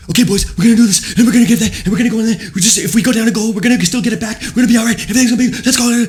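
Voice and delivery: high, loud, manic hyped-up teammate; excited crazy-person impression. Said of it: "acting all excitedly like a crazy person".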